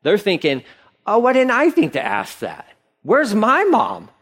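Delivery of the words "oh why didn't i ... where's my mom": high-pitched put-out complaint; indignant envy. Acted. Preacher voices disciples jealous they didn't ask first, indignant and high. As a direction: wail it like someone who missed out.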